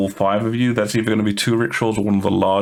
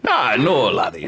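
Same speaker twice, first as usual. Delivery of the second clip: put-on Scottish accent; 3 semitones higher than usual. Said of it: "Thurgrim sounds like this".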